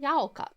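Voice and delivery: YAUKA with a "yow" first syllable; trying out Yauka. Shown as a demonstration. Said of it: "Like that?".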